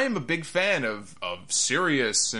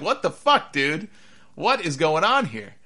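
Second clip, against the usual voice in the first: baffled outburst; 4 semitones higher, 3 dB louder than usual. Retold or imitated. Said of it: "Even he's like".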